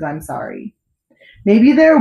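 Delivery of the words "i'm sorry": "I'm sorry" hushed and lower, much softer; soft echo. A narrator's reading. Narrator echoing the king's apology: hushed, low "I'm sorry".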